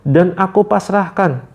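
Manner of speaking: drawn-out slow surrender phrase; slowly. Shown as a demonstration. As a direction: let each word out slowly. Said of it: "pelan-pelan ngomongnya". (pelan-pelan)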